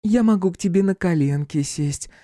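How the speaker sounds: put-on sugary high girl's offer; sweet voice. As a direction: coo it sweetly to tease. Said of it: "сладким голосом предложила Клёпка".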